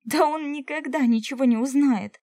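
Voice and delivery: loud desperate exclamation; exclaimed. A narrator's reading. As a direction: burst out to convince him. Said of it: "воскликнула я".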